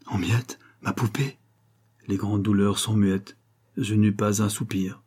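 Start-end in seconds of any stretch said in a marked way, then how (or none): 0.1-1.4 enfant abasourdi. Acted. Enfant stupéfait, poupée cassée.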